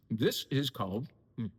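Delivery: talking through a mouthful of cheese; mouth full. Real, not acted. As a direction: say it while still chewing. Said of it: "don't eat with your mouth full".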